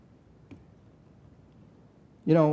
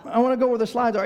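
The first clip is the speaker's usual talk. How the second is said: imitating sulky toddler; 6 semitones higher, faster than usual. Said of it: "but she's just".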